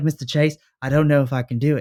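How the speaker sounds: put-on Australian accent. Retelling a story, the speaker quotes Duke talking to Mister Chase in Duke's Australian accent. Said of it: "in his Australian accent".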